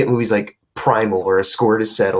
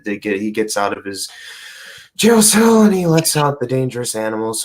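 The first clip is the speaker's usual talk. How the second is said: ordinary delivery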